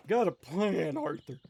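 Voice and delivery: lightly voiced outlaw boss, half under the breath; a quick, offhand echo of the gang leader's catchphrase; Dutch Van der Linde impression. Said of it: "my Dutch Van der Linde impression".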